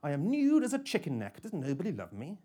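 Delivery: a hint of a smooth machine voice, high on nude; robotic female voice. Kitchen assistant joining the chorus, lightly voiced robotic woman. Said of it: "robotic female voice".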